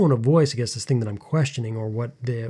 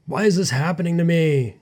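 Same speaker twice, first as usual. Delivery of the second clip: frustrated self-pity; 5 semitones higher than usual. Retold or imitated.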